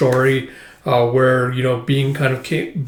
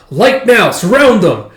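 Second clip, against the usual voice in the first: high, loud battle command; shouted order; 7 semitones higher, 7 dB louder, slower than usual. Retold or imitated. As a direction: bark the order at the troops like a general. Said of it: "ordering his soldiers to go".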